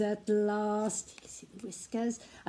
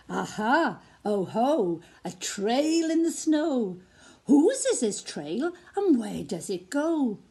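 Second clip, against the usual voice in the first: put-on Gruffalo's child; 4 dB louder than usual. Gruffalo's child finds trail.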